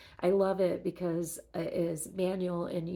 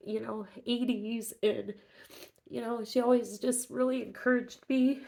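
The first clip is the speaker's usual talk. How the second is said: teary, higher, wavering voice; talking through recent tears; after crying; 4 semitones higher than usual. Real, not acted. Grieving talk about late sister.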